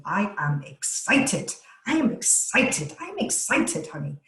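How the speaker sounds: pep herself up before a webinar; excited self-talk. Retold or imitated. Wife pumping herself up before a webinar, chanting eagerly. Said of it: "I start walking around the house going".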